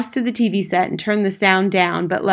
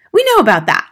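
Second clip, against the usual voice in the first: loud, high-pitched irritable retort; ratty; 9 semitones higher, 8 dB louder than usual. A narrator's reading. Mother missing her TV program, ratty. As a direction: cut the teacher off testily. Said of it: "ratty about missing her program".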